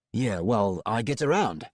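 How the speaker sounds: brash tough woman's voice; Roxy Hazard voice. Acted.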